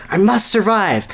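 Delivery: mock heroic desperation; desperate resolve. Sonny fleeing the shaking earth, desperate. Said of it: "he panted".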